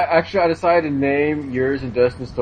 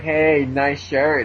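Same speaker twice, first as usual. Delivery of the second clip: 1 slow mock girl; much slower than usual. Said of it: "She'd be like".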